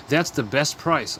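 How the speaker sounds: slow and deliberate, each word clear; slow model phrase. Shown as a demonstration. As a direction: say it slowly so students can copy. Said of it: "teacher models the phrase".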